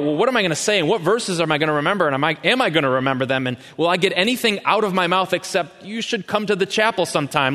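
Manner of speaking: high, fast panicky musing; anxious fretting. Retold or imitated. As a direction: spill out the worry in a rush. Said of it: "And we worry about".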